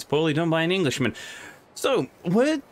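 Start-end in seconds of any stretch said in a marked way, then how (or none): 1.8-2.6 put-on Scottish accent. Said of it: "why do you speak with a Scottish accent".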